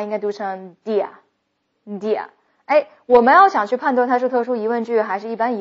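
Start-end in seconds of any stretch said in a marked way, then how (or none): 0.8-2.3 "do you" reduced to "dee-uh", said slowly; weak mid-sentence do you. Shown as a demonstration. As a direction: squash "do you" into "d'ya". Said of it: "而在句中间的这两个的话，". (句中 do you 弱读成 d'ya)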